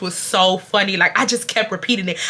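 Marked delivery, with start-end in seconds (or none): none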